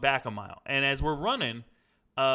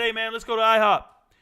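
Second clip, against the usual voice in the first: louder, higher upbeat call; retold excited invite; 5 semitones higher, 7 dB louder than usual. Soldier inviting his buddy after the test, retold excited call.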